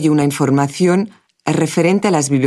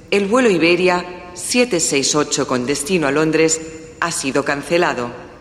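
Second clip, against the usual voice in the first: formal PA announcement voice; airport announcement. Acted. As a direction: call the flights over the loudspeaker. (anuncio por megafonía del aeropuerto)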